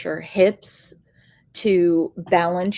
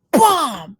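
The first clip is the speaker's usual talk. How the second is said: mock bam; 7 semitones higher, 6 dB louder than usual. Slamming medicine ball.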